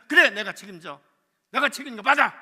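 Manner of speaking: loud, high forceful order; commanding shout. Retold or imitated. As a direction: bellow that you take the blame. Manager insisting to clerk. (지점장이 직원에게 크게 호통치며 명령)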